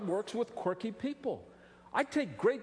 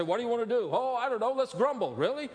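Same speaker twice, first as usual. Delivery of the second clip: grumbling Israelites; 4 semitones higher, faster than usual. Retold or imitated. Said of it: "They loved to grumble".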